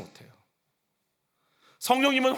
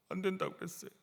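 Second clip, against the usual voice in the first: put-on small, much softer child's voice; meek child; 13 dB quieter than usual. Preacher voicing a scolded child, answering meekly and softly. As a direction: answer like a scolded kid, barely audible.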